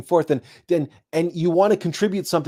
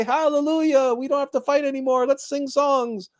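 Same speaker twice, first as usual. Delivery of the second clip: joyful cheer; 9 semitones higher than usual. Pretend. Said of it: "slam the mugs together and say".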